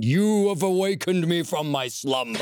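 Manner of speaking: ancient being woken from sleep; dusty mummy rasp. Pretend. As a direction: rumble it like something stirring in a tomb. Console voiced as ancient being.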